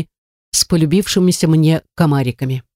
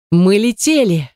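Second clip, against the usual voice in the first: higher, slow, drawn-out exclamation; exultant; 4 semitones higher than usual. A narrator's reading. Narrator realising the shuttle broke free, exultant. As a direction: stretch it out in amazed triumph. Repeated in joy at escaping.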